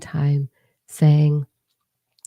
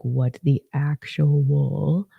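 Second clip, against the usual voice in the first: mock stunned; much slower than usual. Imitating stunned followers.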